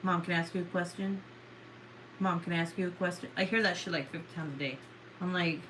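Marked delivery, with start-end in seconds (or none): 0.0-3.3 imitating her son. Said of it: "he comes up to me and he's like".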